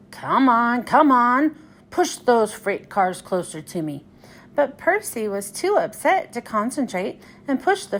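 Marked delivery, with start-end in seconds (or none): 0.1-4.0 bossy crane. Acted. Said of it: "he grew bossier still".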